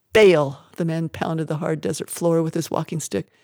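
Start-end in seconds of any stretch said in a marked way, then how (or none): 0.1-0.6 loud, sharp outcry at the name; a sudden angry bark of Baal!; outraged shout. Acted. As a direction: spit the name out in fury. Prophet outraged at false god.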